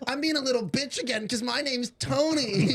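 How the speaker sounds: high, laughing through the mock line; cracking up mid-quote. Real, not acted. Mocking Tony's name to friends, laughing.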